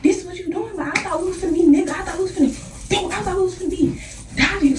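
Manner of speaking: high, fast disbelieving complaint; incredulous. Retold or imitated. To the girl fighting dirty, high and fast in disbelief. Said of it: "I'm like".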